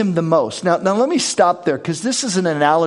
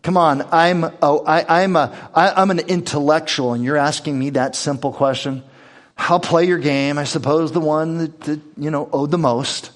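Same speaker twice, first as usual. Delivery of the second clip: imitating a self-important intellectual, lightly; mock condescension in an everyday voice; sarcastic. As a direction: play along with understated sarcasm. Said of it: "dripping with sarcasm".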